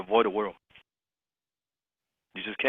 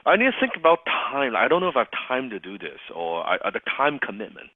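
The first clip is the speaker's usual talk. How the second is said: hesitant prospect. Pretend. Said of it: "as a prospect, I might say".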